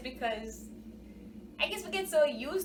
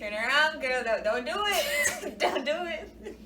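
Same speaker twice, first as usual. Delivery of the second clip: mock warning; 4 semitones higher, 5 dB louder than usual. Mock warning against fake restaurants.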